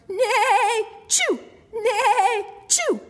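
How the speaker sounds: whinny high, burst into a sneeze; sneezing horse. A narrator's reading. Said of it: "sneezed horse".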